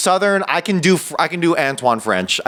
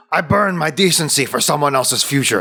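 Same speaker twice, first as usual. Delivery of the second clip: the same line, said louder; louder Bill Skarsgård. Shown as a demonstration. Retrying the Bill Skarsgård line louder for his friend. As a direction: push the brooding voice out more. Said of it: "I'll try the same lines, but go louder".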